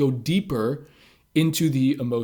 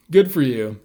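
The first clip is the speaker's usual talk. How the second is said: sarcastic; 5 dB louder than usual. Retold or imitated. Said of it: "responded sort of sarcastically".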